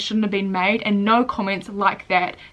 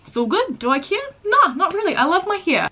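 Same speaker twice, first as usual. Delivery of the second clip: laughing it off; 10 semitones higher, 4 dB louder than usual. Real, not acted. Brushing off hater, laughing.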